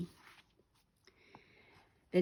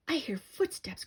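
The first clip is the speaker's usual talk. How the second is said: frightened cry; 10 semitones higher than usual. A narrator's reading. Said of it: "cried Tom-, Timmy".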